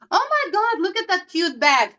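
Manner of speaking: high, gushing squeal of delight; imitating a distracted client spotting a bag; retelling the client who jumped out of the chair, gushing high; excited client.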